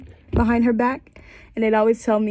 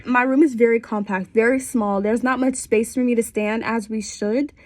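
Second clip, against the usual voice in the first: congested. Real, not acted. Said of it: "I'm a bit congested".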